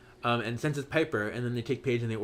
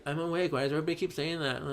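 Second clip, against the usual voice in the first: higher, quick and soft protest; mock irritated reply; 3 semitones higher, 4 dB quieter, faster than usual. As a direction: imitate someone mildly put out at being woken. Paige's loopy reply to being woken.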